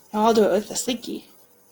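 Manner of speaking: normal talking voice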